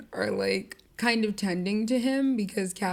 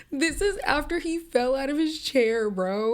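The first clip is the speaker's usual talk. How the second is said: incredulous; 6 semitones higher, 3 dB louder than usual. Real, not acted.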